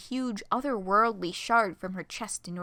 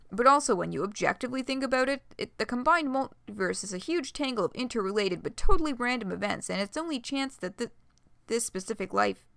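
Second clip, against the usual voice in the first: out of breath. Real, not acted. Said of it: "choking on my own words and, like, running out of breath".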